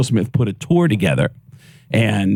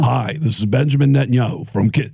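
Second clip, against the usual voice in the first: Netanyahu voice; 3 semitones higher than usual. Retold or imitated. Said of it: "Just listen to Benjamin Netanyahu".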